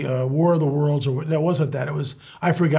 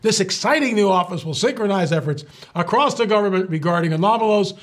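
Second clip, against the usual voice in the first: reading out a government press release; formal news-release delivery, deadpan; official announcement read. Shown as a demonstration. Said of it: "you've gotta be serious now".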